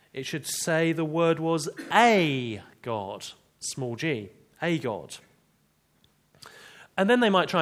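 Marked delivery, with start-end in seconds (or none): 0.1-5.2 slow, mildly mocking Witness reading; quoting a Witness. To the congregation, mimicking a Witness's reading, slow and mocking. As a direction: drag it out like the Witness version. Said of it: "in our version of the Bible".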